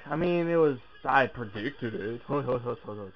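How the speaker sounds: loud, slow excited cheering; excited shouting. Real, not acted. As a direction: yell it out, thrilled. Favourite wrestler returns.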